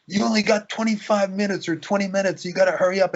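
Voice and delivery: high-pitched mock nagging call; retold yelling. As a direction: imitate a bossy herder hurrying someone along. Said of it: "yelling out".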